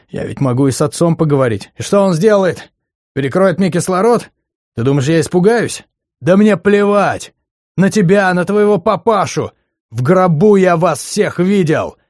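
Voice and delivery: high, loud, slowing angry tirade; girl screaming defiance at him; defiant female yelling. Acted. Ex-girlfriend's angry defiant outburst.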